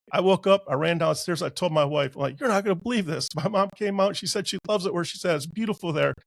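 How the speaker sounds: breathless with joy, telling his wife about his mom; excited retelling. Real, not acted. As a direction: rush the good news out, thrilled. Excited morning after the vision.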